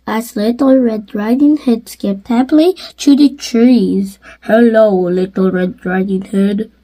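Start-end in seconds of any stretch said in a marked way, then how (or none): 4.4-6.7 father calling out. Acted. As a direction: lightly lower father's call. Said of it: "called her father".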